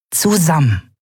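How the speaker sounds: high, brooking no argument; firm final word; firm Nelen. Acted. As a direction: state it, no discussion. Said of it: "Ihr Ton duldete keine Widerworte".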